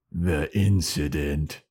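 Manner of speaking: slow, weighty mock menace; ominous reveal. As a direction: drag it out with dark portent. Old man's ominous reveal.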